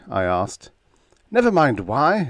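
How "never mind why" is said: high, loud snap; snapped. Acted. Assignment clerk snaps at Donovan, high and loud. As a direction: bite the words off sharply. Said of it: "snapped the A C".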